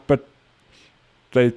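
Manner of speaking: laughing, high, slow; laughing protest. Retold or imitated. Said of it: "I'm like".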